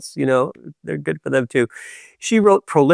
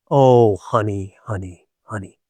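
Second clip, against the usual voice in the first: soothing honey, fading out; 4 semitones lower than usual. Retold or imitated. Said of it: "echoing the comfort softly".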